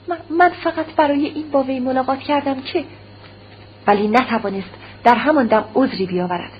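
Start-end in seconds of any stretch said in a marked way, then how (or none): 0.1-2.8 faltering reply, stumbling over من، من; stammering. Acted. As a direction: caught out, groping for an excuse. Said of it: "با لکنت زبان پاسخ داد". (پاسخ با لکنت و تردید)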